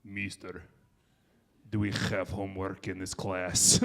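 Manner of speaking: put-on low, heavy Russian-accented kid voice; deep Russian accent. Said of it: "had the deepest voice ever, very thick Russian accent".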